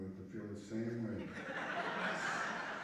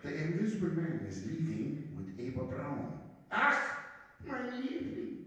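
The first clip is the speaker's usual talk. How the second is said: much higher, sing-song mock German accent; 8 semitones higher than usual. Comic leader lamenting Eva Braun, high mock German accent. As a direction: swoon it in a silly German accent. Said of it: "I like to do that German accent".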